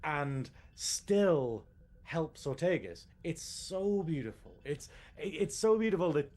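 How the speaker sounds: slow, moved, a lump in the throat; dragging out the words as feeling wells up; emotional. Real, not acted. Fan choked up describing the Gorn's sacrifice, slow and moved. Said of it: "I'm very emotional about this".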